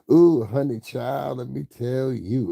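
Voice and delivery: high, slow sassy drawl; sassy gossip mimic. Mocking a gossip streamer, high and slow. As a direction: ham up a sassy gossip tease.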